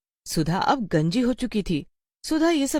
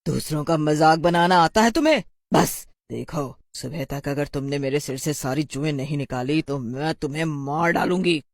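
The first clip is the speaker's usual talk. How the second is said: angry witch; 2 semitones lower than usual. Acted. Witch threatens Rekha.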